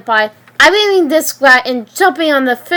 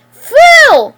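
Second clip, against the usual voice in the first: very high, much louder scream; full scream; 7 dB louder than usual. Acted. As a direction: scream the single word with everything. Riley screams after her boyfriend.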